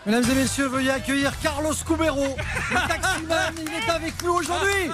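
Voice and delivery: grand entrance announcement. Pretend. Host introducing a guest.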